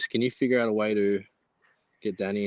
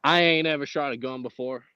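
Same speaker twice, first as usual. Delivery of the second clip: mock Texan twang; Texan accent. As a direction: play a Texan. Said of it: "I'll do the Texan accent".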